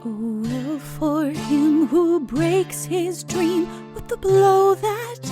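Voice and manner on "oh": ordinary delivery, nothing marked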